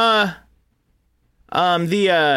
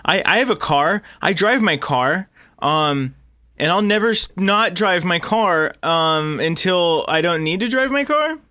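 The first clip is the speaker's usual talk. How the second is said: mock eager contestant; 4 semitones higher than usual. Parodying contestants' bland intros.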